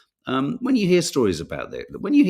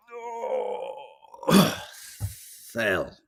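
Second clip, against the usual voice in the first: granddad's sigh; 7 semitones higher than usual. Retold or imitated. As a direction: sink into the chair with a weary sigh. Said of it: "He said, he'd go".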